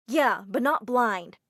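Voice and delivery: slow, loud mocking jab; sarcastic put-down. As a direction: sneer it out slowly. Mean teacher mocks student.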